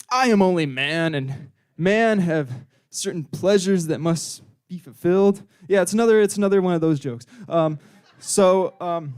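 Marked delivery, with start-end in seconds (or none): 0.1-5.4 lightly acted, mock-solemn miner; odd miner voice. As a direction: plead with stretched, stilted words. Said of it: "why he says it like that".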